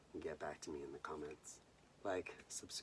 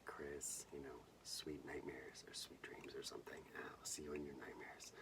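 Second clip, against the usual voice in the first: spooky signed message; 3 semitones lower, 7 dB quieter than usual. Retold or imitated. Reading the signed napkin.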